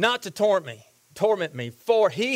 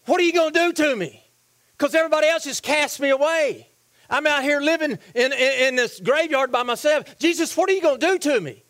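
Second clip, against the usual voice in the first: raised-pitch, worried pleading; acted fearful plea; 4 semitones higher than usual. Possessed outcast asking Jesus his intentions, mildly afraid. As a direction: voice the outcast's mild dread. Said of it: "I think he was afraid".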